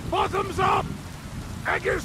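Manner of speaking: high, loud cheerful toast; toasting shout. Acted. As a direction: raise a glass and cheer.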